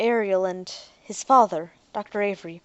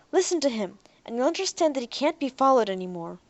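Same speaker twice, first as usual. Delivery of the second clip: firm; 4 semitones higher, 3 dB louder than usual. Acted. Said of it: "now more in control".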